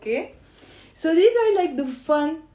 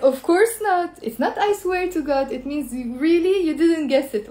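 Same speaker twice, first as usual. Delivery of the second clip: higher, teasing sarcastic no; mocking of course not; 5 semitones higher than usual. Shown as a demonstration. Teacher to students, teasing sarcastic refusal. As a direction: tease them that they never guessed. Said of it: "it means like".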